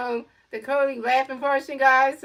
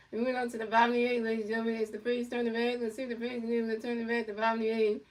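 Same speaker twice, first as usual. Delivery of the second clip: play-by-play announcer. Acted. Mock broadcast of the inning.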